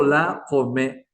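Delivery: "la come" drawn out, with a glottal Q for the c; slow "la come", the k made far back in the throat; Q pronunciation. Shown as a demonstration. Teacher contrasts the Q with the C, slow throaty-Q "la come". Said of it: "que se pronuncia con la Q".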